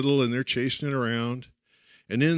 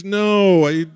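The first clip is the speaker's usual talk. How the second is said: put-on child's refusal; 7 semitones higher, 6 dB louder than usual. Child refusing zoo trip.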